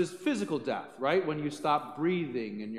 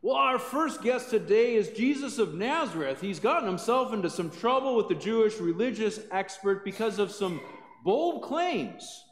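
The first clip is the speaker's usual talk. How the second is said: chirpy TV host intro, pitched higher; a hint of a cheesy daytime host opening; talk show host; 5 semitones higher than usual. Pastor voicing a shock-show host introducing Jesus, lightly chirpy. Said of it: "starts out the show by saying something like this".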